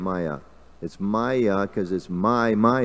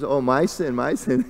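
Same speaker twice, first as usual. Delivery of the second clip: loud, high, playful mock realization; Krishna; 6 semitones higher, 6 dB louder than usual. Playful god turns medicine names into a pun, loud and high. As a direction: exclaim it as a teasing discovery. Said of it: "Krishna's playful, Krishna does".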